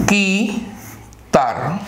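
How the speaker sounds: quitar said with a silent u, as kitar; spelling pronunciation. Shown as a demonstration. Teacher reads quitar aloud for the class. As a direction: quitar read plainly with the u unsounded. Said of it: "Que, so".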